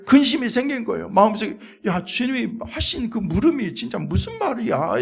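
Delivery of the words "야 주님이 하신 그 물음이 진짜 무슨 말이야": worried muttering. Retold or imitated. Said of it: "근심하며".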